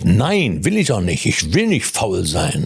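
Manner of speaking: mock outraged refusal, rising on nein; a hint of indignant refusal. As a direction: protest like you've been insulted. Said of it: "ein empörtes".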